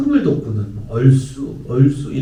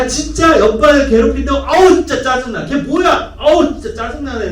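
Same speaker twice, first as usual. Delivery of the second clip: higher, louder annoyed outburst; mirrored irritation; 9 semitones higher, 6 dB louder than usual. Shown as a demonstration. Mom echoing her child's anger at a bully, loudly. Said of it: "똑같이 짜증내는 거야".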